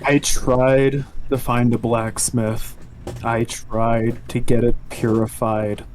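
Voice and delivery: measured, subdued in-character defence; grave confession. Acted. Player explains to the commander why he became the weapon's core, grave and subdued.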